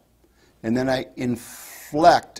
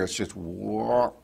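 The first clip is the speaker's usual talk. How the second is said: fawn bleat; 3 semitones lower, 7 dB quieter, slower than usual. Shown as a demonstration. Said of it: "that's typically what you're gonna hear".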